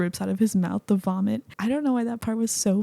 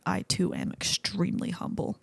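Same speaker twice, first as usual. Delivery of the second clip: Drax quote; 2 semitones lower, 6 dB quieter than usual. Retold or imitated. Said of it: "And Drax is like".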